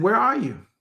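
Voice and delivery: God calling. Acted. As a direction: lift it into a call.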